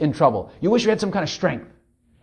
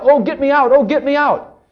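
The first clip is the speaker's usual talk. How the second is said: high-pitched mock plea for rescue; imitated desperate cry; 7 semitones higher, 5 dB louder than usual. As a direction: imitate sick people begging for escape. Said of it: "Their cry is more".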